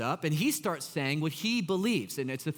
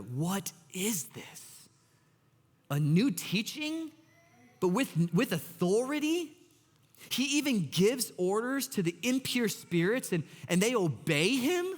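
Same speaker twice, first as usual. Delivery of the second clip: amazed; 3 semitones higher than usual. Acted. People in church asking each other, mildly acted amazement. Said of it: "so amazed that they asked each other".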